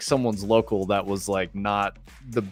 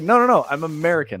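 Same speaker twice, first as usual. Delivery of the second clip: tag; 6 semitones higher, 4 dB louder, faster than usual. Retold or imitated. Retold protest to angry barmaid.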